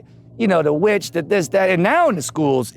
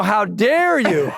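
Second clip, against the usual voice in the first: mock offended teacher; slower than usual. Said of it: "She, you know".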